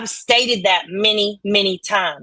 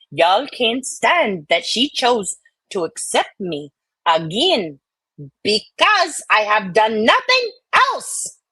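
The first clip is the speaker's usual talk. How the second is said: put-on Southern belle accent. Streamer reads a chatter's comment in a Southern belle accent. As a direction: read it like an offended Southern belle. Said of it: "It's the Southern one. Scarlett O'Hara".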